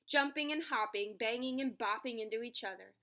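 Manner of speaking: animated picture-book reading; story narration. A narrator's reading. Narrator telling children about an animal race, story narration. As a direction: tell it to young children.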